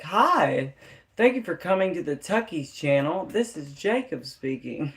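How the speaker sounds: put-on Indian call center accent; lightly put-on Indian call center voice. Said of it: "my call center accent".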